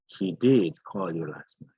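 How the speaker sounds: DID punched before "call"; emphatic DID. Shown as a demonstration. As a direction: hit the word DID to affirm it. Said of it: "uses did in order to stress".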